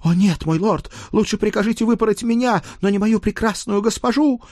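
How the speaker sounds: very high, melodramatic howl; pathetic wail. A narrator's reading. Page begs to be flogged instead of milady, wailing pathetically. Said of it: "патетически взвыл этот клинический идиот".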